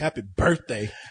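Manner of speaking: dripping sarcasm, very low voice. Retelling someone's last words as the speaker went to the car, imitating a sarcastic tone. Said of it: "in the most sarcastic tone".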